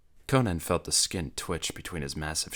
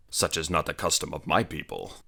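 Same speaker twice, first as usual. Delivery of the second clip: growled. Acted. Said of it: "Conan growled".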